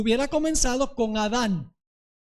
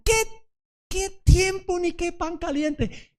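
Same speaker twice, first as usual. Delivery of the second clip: réplica burlona y lenta, un poco más alta y fuerte; rechazo indignado; 6 semitones higher, slower than usual. Retold or imitated. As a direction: escupe la pregunta con desprecio fingido. Acreedor furioso rechaza al deudor. (acreedor despiadado que se burla del deudor)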